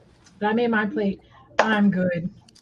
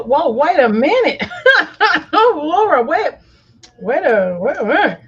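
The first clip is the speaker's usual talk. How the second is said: excited; 3 semitones higher, 5 dB louder than usual. Real, not acted. Excited over tasting chicken.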